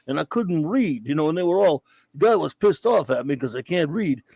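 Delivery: lightly done mumbling Rocky Balboa voice; hint of a slurred Philly boxer; bad Rocky impression. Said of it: "this annoying Rocky stupid voice, really bad Rocky impersonation".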